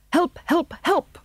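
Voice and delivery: high, urgent calls for help; barked cry. A narrator's reading. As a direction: yelp it out like a dog in danger. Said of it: "barked Pongo".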